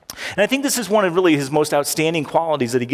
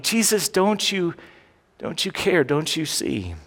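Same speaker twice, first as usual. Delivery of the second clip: pleading. Acted. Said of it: "the disciples said".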